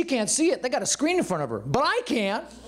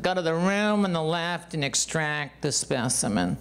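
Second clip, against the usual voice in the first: slow, detached, clinical reading; clinical nurse; 3 semitones lower than usual. Retold or imitated. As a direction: recite it like a cold protocol. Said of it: "this is exactly how she says it".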